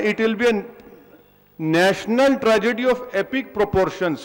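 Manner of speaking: quoting again word by word, very slowly; slow deliberate reading. Shown as a demonstration. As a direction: drag the English quote out for weight. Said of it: "क्या कहा मिस्टर Jagannath". (बहुत धीरे, हर शब्द पर ज़ोर)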